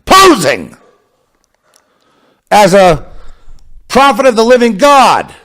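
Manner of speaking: high, loud denunciation; rising indignant preaching; preaching outrage. Real, not acted. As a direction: thunder it from the pulpit.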